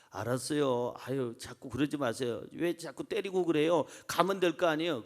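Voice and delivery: soft, low grumbling surrender; meek giving in. Retold or imitated. Ordinary person giving up under the crowd's scolding, softly resigned. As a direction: act out someone backing off with a quiet complaint. Acted quitter giving in to bullying.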